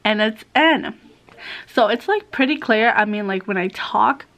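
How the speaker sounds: slight lisp from a new retainer; wearing a retainer. Real, not acted. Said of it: "I do kinda have, like, this, um, lisp".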